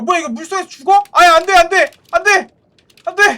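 high, loud panicked no; panicked yelling. Real, not acted. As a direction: yell in panic at the screen. Drowning in game, panicking.

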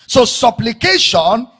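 slow, deliberate pulpit declamation; emphatic preaching. Real, not acted. Preacher reading Paul's prayer for Israel, emphatic. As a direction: weigh out the words one at a time.

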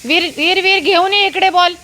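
high excited shouts to a dog playing fetch; excited calling. Real, not acted. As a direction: cheer the dog on to grab the ball. Urging dog to fetch ball.

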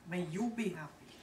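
light Spanish or Italian-style accent; a hint of a vague Latin accent; Latin-based accent. Shown as a demonstration. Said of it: "Latin-based accent".

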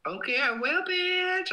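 high, playful squeal. Real, not acted. Streamer squealing back at a viewer, high and playful. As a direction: tease a viewer affectionately.

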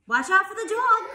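high, loud alarmed cry; urgent shouted warning. A narrator's reading. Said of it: "cried the sheep".

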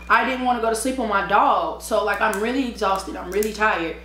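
usual speaking voice

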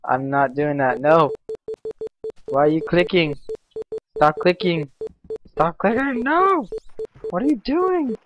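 loud, high, frantic shouts at the misbehaving mouse; real panic, yelling as the mouse goes haywire; panicked yelling. Real, not acted. Mouse glitching mid-game.

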